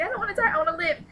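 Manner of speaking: desperate plea. Retold or imitated. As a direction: plead for life, building a list. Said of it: "Like, in her head, she's like".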